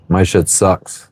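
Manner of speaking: usual speaking voice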